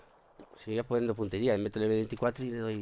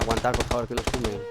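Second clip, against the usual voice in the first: louder, urgent plea; 6 dB louder than usual. Real, not acted. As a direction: call out to hold on. Begging team to hold position.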